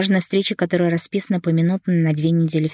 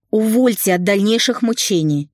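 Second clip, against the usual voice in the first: higher melodramatic plea; dramatic nanny; 5 semitones higher, 3 dB louder than usual. A narrator's reading. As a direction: beg to be let go. Nanny begs release. (няня театрально умоляет отпустить)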